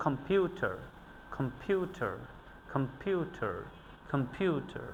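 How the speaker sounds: "কম্পিউটার" with weak "কম", strong "পিউ", weak "টার"; stress on middle syllable. Shown as a demonstration. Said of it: "আমরা উইক সিলেবলে উচ্চারণ করেছি". ("কম্পিউটার"-এ "পিউ" জোরে, বাকিটা হালকা)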